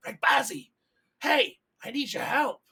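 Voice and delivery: acted urgent shout for attention; calling up. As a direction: holler up to someone out of reach. Gus calls up to Rekbazi.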